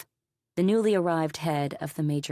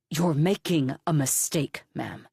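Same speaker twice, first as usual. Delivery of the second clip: icy; 4 dB louder than usual. Acted. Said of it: "suddenly icy again".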